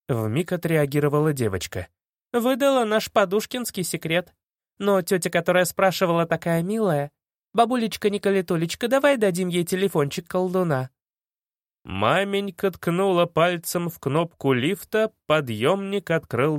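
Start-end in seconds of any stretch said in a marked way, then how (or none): 2.3-10.9 put-on girl voice. Girl keeps playing act.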